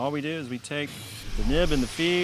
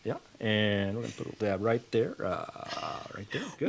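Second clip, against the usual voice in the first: pilot voice; 3 semitones lower than usual. Acted. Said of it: "I'll walk you through the next step in the pilot voice".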